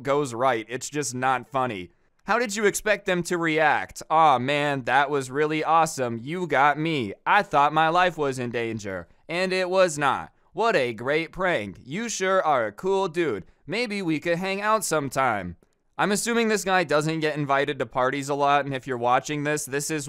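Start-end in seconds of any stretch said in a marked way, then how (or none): 4.1-15.6 mock-enthusiastic admiration; hammed-up fake delight; sarcastic praise. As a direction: gush insincerely at a bad prankster. Sarcastic imagined reaction to prank.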